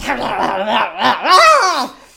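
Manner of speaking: loud drawn-out zombie moan, half laughing; zombie groan. Retold or imitated. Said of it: "all he can hear when he's watching it is just like".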